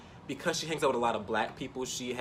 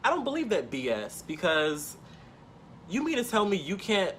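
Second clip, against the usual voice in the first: retold outburst, pitched high; high-pitched, insistent mock tirade; going off; 7 semitones higher than usual. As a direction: re-enact losing patience with a friend. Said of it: "I just went off on her".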